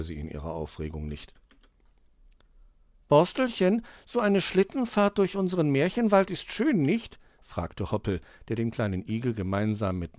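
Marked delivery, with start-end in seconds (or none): 3.1-7.2 high, lilting little hare; cheerful animal child. Acted. Hoppel asks a hedgehog friend on the sledge hill, high child voice. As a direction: play an eager young storybook animal, high.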